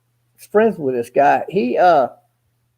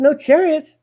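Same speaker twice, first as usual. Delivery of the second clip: incredulous; 9 semitones higher than usual. Retold or imitated. Retold disbelief at angel's words.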